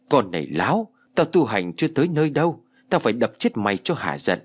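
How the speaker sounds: furious scolding, rising to a shout; angry. Acted. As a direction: snap at her in a rage. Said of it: "Cậu tức giận nói". (giận dữ quát mắng)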